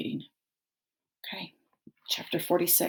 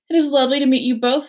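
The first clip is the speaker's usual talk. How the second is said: fast, bright polite robot; cheerful robot politeness; 7 semitones higher, 9 dB louder, much faster than usual. A narrator's reading.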